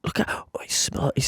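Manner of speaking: hushed whisper. Real, not acted. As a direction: whisper it as you watch closely. Watching water slowly move, hushed.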